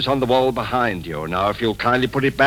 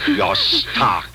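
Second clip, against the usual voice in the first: furious outburst. Acted. Husband berates his wife.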